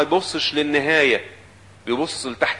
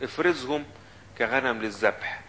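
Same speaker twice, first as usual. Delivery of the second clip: softer, the verse read back calmly; softer reread; 2 semitones lower, 5 dB quieter than usual. Acted. Preacher rereading the verse to the congregation, softer.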